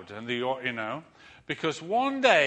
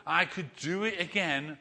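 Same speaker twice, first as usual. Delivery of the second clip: slow, grand call with a laugh; showman challenge; 3 dB louder, slower than usual. Retold or imitated. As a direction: draw it out like a ringmaster. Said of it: "he says to the crowd".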